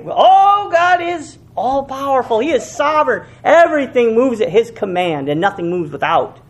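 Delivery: high, sing-song mock praise; over-sweet pious parody. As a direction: pour on the churchy sanctimony. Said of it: "we say one thing".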